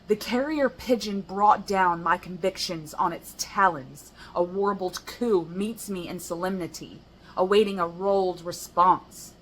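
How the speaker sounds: passionate poem reading. Shown as a demonstration. Performing her poem for viewers, rising impassioned recital. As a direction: get into character and half-yell the poem. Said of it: "furiously yelling this poem".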